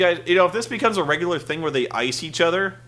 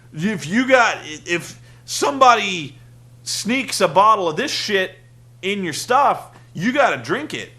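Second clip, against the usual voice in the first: a touch louder, lightly voiced explainer; explaining the rule; 3 semitones higher, 4 dB louder than usual. Beer Money explaining icing to Ric Flair, lightly voiced relish. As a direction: lay out the prank rule with relish. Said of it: "He's like".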